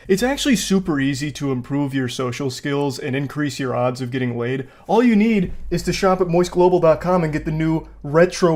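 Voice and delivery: upbeat sponsor pitch, read straight. Acted. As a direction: sell the retro basketball line.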